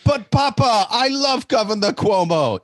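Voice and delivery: put-on high, loud girlish plea to Papa; young princess begging her father, high and loud; pleading daughter. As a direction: whine it up high like a lovestruck princess.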